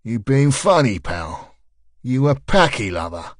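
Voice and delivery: lightly voiced South London man, recruiting; South London accent. A leaflet man recruiting a jogger, light South London accent. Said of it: "The suit puffed out his chest".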